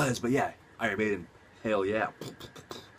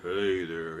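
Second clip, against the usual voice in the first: cowboy voice; 4 semitones lower than usual. Retold or imitated. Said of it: "has that really cool cowboy voice".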